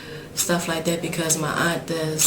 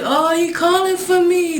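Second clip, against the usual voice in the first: touched; 10 semitones higher, 5 dB louder than usual. Real, not acted. Touched by son calling.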